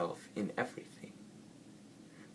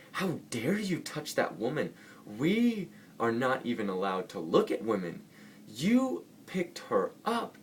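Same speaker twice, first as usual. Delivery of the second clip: angry monk; 6 semitones higher than usual. Retold or imitated. Monk berating the other for carrying the woman, angry shout. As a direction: tear into your fellow monk for breaking the rules. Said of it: "gets really angry".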